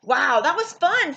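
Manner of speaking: a touch of breathless, happy. A narrator's reading. New kid breathless after the game. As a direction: gasp it out after playing hard. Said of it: "said the new kid breathlessly".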